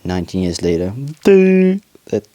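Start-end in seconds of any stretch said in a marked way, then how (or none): 1.2-2.3 sudden high yelp. Real, not acted.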